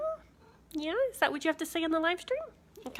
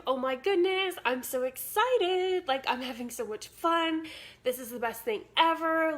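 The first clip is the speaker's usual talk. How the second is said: excited demo; 3 semitones higher than usual. Shown as a demonstration. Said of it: "shift into the state of".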